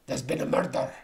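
put-on Scottish voice; Scottish accent. Vlogger imitating Scottish people, Scottish accent. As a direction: announce it like a stock Scot. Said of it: "They include Scottish people".

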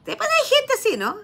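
laughing while telling viewers; words spilling through a real laugh. Real, not acted. To her viewers about the sister-in-law, laughing.

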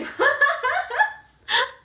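big shrieking laugh; high laugh bursting out; loud burst of laughter. Real, not acted. Laughing at shared bug emoji.

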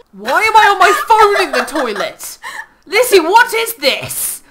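high, loud comic protest; exasperated disbelief. Real, not acted. Player protesting their character's phone use on the toilet, exasperated. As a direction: wail it in mock outrage.

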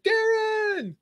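loud, high shout of the name, falling off; calling out a name. Retold or imitated. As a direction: hail him across the room. Calling out to a guy.

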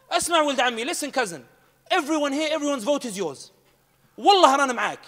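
high, loud rallying cry; café man pledging votes excitedly; excited pledge. Retold or imitated. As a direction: swear loyalty with fervour. Café crowd rallying enthusiastically.

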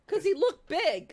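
slow words through real laughter; laughing. Real, not acted. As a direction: laugh while you answer. Laughing at game character.

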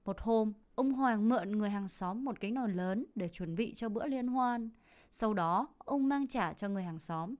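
slow, clear reading for learners; measured slow storytelling; story reading. Acted. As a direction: read it out slowly for students. Reads story aloud slowly.

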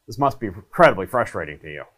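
quick, rushed, throwaway delivery; rushed empathy line. Shown as a demonstration. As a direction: rattle it off without meaning it. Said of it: "you're not saying".

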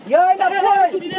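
high, slow, stretched shout; drawn-out call. Real, not acted. Coach calling players back, drawn-out shout. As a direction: stretch the order out across the pitch.

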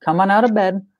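put-on calm and friendly with a toddler; dad calmly explaining bedtime rules to his son; gentle dad voice. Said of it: "I'm like".

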